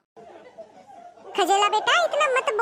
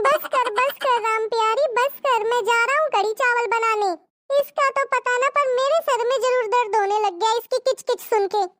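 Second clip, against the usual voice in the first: husband; 3 semitones higher than usual. Acted. Husband answers wife's wailing, lightly voiced and teasing.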